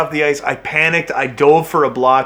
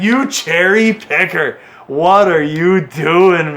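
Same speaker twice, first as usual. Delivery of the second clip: mock scolding; slower than usual. Real, not acted. Scolding the player on screen.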